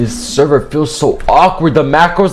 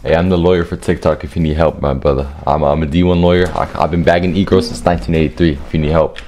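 mock lawyer voice; 6 dB quieter, faster than usual. Pretends to be TikTok lawyer.

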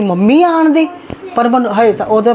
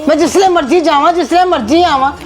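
higher, indignant scolding; mother-in-law scolding, pitched higher; 5 semitones higher than usual. Acted. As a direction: put the daughter-in-law in her place. Mother-in-law quarrel with daughter-in-law.

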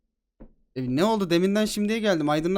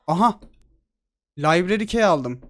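a louder, slowed triumphant aha; excited find; 6 dB louder than usual. Real, not acted. Gamer finding a key in the game, excited. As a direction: announce the find proudly.

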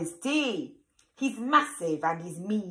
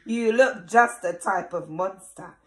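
gloating ogre; 4 semitones higher, 4 dB louder than usual. Acted. Ogre gloating over treat.

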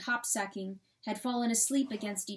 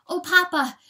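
much louder, higher cry; 9 semitones higher, 12 dB louder than usual. A narrator's reading. Weasel trying to comfort the coyote, crying out. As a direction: cry it out too loud. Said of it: "cried too loud".

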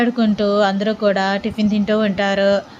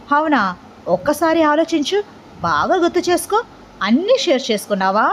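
pointed teasing questions pitched higher; probing, needling; 5 semitones higher than usual. A narrator's reading. Rishi needling his cousin about secrets, pointed and teasing. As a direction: prod him to confess, line by line. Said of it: "అని అంటూ ఉంటాడు గుచ్చి గుచ్చి రిషి".

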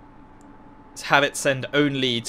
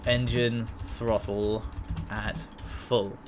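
slow, flat text-to-speech voice; bad robot reader; 5 dB quieter, much slower than usual. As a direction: read it like a computer announcement. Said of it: "So you can have it say".

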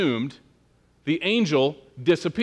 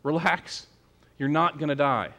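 calming; 2 semitones lower, 5 dB quieter than usual. Retold or imitated. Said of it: "But the angel says".

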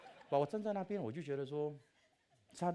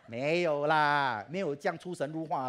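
emphatic denial; 4 semitones higher, 11 dB louder than usual. Real, not acted. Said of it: "correcting the audience".

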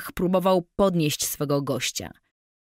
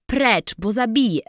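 scream; 5 semitones higher, 3 dB louder than usual. A narrator's reading. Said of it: "wrzasnęła dziewczyna".

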